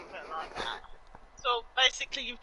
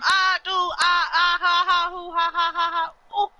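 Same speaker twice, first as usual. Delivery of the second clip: gasping, helpless real laughter; ha-ha bursts, louder and higher; laughing fit; 6 semitones higher, 8 dB louder than usual. Real, not acted. Laughing fit after a mishap.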